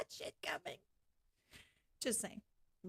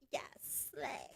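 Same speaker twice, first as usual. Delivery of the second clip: mock whisper; 13 dB quieter than usual. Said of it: "They're just like".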